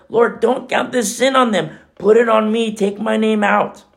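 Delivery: a touch of desperate begging; imploring. Acted. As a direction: offer yourself instead, begging. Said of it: "Imploring of the Lord".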